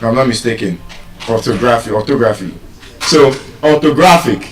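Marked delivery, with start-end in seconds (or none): 3.6-4.5 "orthographic" with GRA stressed; penultimate stress. Shown as a demonstration. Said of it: "stress on the penultimate syllable".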